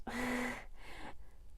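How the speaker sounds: emotional laugh. Real, not acted. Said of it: "I'm trying not to get emotional".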